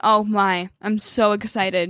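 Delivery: sarcastic, mock, fake excitement. Complaining about online school lessons with sarcastic fake excitement. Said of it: "you can hear the enjoyment".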